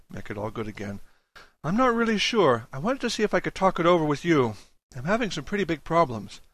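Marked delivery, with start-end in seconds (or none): 1.6-6.4 put-on anxious young man, higher voice. Julius pleads for help on phone.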